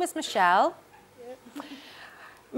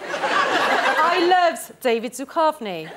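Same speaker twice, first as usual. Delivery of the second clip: laughing; 3 semitones higher, much slower than usual. Retold or imitated. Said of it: "I can't do it in a Barry accent".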